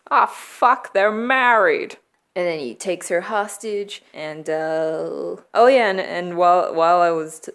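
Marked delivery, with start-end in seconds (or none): 0.1-2.0 mock realization. Reporter realizes the connection.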